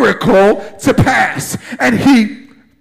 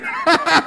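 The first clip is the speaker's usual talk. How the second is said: excited laugh; 5 semitones higher, 4 dB quieter than usual. Real, not acted. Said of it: "I'm just so excited".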